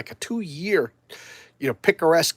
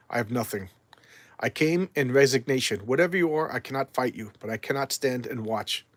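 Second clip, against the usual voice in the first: Swamp Thing. Acted. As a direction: answer in weary surrender. Reads Swamp Thing's reply.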